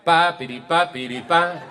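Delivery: high vocal trumpet call; spoken bugle imitation; mock fanfare. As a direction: sound out a little military fanfare. Mimics a bugle-like command.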